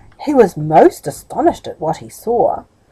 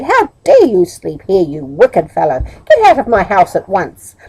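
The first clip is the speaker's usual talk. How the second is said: furious; 4 dB louder than usual. Acted. Woman throws Middle out.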